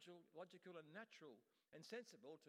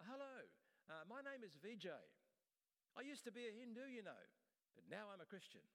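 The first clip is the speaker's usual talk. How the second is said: put-on light Indian accent, higher pitch; a hint of an Indian accent, pitched up; 5 semitones higher than usual. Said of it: "you could hear this Indian voice saying".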